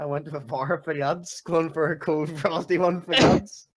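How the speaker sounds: attempted Irish accent, loose. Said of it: "Can you speak for me a bit?".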